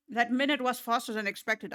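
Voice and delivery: talking while chewing; mouth full. Real, not acted. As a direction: speak through a mouthful of food. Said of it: "I'm still chewing".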